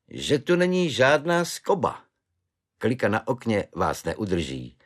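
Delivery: a lightly voiced good-natured Švejk; chatty, easy-going soldier's voice. Švejk cheerfully offers his belt to the prisoner, lightly voiced.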